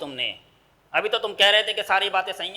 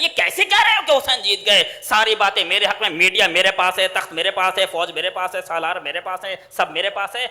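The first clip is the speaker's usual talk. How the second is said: boastful tyrant; 4 dB louder than usual. Acted. Yazid boasts of his power.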